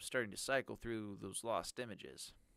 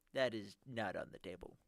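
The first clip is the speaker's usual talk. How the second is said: nerdy voice. Acted. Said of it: "encourage the nerdy voice".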